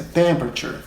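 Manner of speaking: temperature stressed on TEM; correct temperature. Shown as a demonstration. Teacher gives the correct temperature after the wrong ones. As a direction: say temperature with first-syllable stress. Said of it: "Não é temperature".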